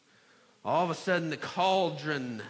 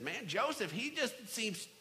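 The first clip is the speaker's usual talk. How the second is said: higher-pitched mock admiration; small group member; 5 semitones higher than usual. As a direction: lightly imitate an exasperated group member, higher. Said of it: "one of the people in the small group".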